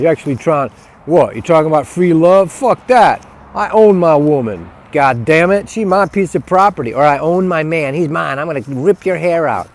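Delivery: loud, jeering possessive bully; mocking bully. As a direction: bark it like a jealous brute. Mocking programmed people.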